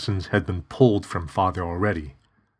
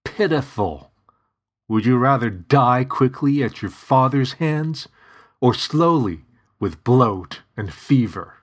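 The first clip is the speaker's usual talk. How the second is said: higher, louder sneering corpse voice; mocking demon voice; 5 semitones higher, 4 dB louder than usual. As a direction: taunt like a cruel demon mimic. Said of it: "spoke in a mockery of my voice".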